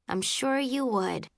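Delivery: slow, placating niceness; gently kind. A narrator's reading. Girl turning down a would-be boyfriend, as nicely as possible. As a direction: let him down gently, unhurried. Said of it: "as nicely as I could".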